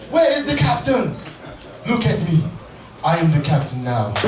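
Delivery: deep menacing pirate voice, dropping low; low threatening hijacker taking the ship; pirate movie line. Retold or imitated. Hijacker storming the ship, deep and menacing. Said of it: "he's like".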